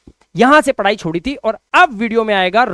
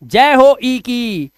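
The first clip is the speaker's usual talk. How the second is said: mock victory cheer; 4 dB louder, much slower than usual. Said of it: "पहले वाले की जय जयकार होती है".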